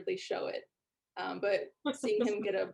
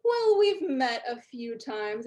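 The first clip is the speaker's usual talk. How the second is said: pompous, slower, higher train-nerd voice; nerdy dwarf; 4 semitones higher, 6 dB louder, slower than usual. Acted. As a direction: greet them like a puffed-up hobbyist. Dwarf mocking Jules.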